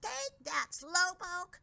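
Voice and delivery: high gleeful taunting yell. Acted. Dragonix taunting the driver in front, gleeful yell. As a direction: gloat as you hurl it. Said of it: "yelled Dragonix gleefully".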